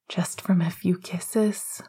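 slow whisper from the base of the throat; hungry cavernous voice. Acted. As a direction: sound hungry and desperate on purpose. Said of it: "intentionally lowering his voice into that cavernous place".

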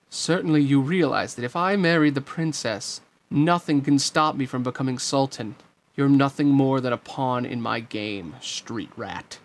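boast, then drop into contempt; boastful villain. Acted. Jafar dismisses Aladdin as a pawn, gloating.

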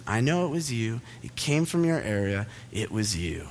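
low, quiet mock accusation; accusing teacher. Teacher insisting the noise came from him, mock accusing. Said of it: "She goes".

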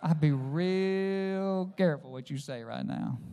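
a quiet inner voice of warning; Holy Spirit warning. Retold or imitated. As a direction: caution him gently and gravely. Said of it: "the Holy Spirit said".

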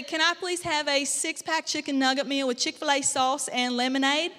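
imitated Southern US drive-thru order; mimicked South Carolina accent; put-on Southern drawl. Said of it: "I'd have to talk like them".

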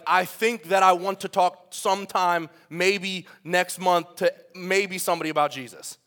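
slow, hesitant mock waffling; wishy-washy. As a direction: drag it out as if unable to commit. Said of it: "like, wishy-washy words like".

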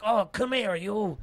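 high, loud flirty call; hammed-up playful come-on; movie character impression. Retelling the movie scene, high flirty impression. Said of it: "And he's like".

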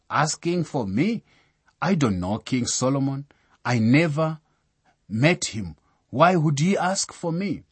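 put-on a startled girl asking why the king wants her; surprised disbelief. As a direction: act out her astonished disbelief. Girl surprised by king's summons.

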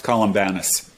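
Columbanus with the third syllable like English 'ban'. Shown as a demonstration. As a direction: say Columbanus as 'col-um-BAN-us'. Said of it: "it's usually pronounced".

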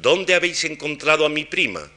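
"dónde" high, the rest kept up, then a fall. Shown as a demonstration. Lecturer models the wh-question tune. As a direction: start high on "dónde" and come down at the end. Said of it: "El esquema de".

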